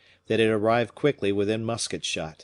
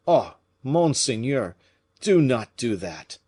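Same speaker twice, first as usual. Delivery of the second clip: pleading; 4 semitones higher, 5 dB louder than usual. Acted. Gourville begs Fouquet.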